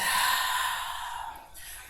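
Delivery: long, unvoiced sigh out; breathy exhale. Shown as a demonstration. Teacher demonstrates letting the breath out. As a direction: push the air out in a sigh. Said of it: "let it out".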